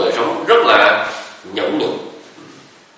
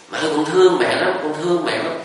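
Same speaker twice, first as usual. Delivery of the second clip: higher, called out into the forest; child calling out; 6 semitones higher than usual. Retold or imitated. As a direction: shout it into the woods. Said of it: "con la lớn lên". (đứa bé la lớn vào rừng, giọng cao)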